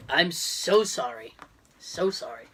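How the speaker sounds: low, slow, drawn-out apology; apologetic. Real, not acted. Apologising to co-host after a coughing fit, low and slow.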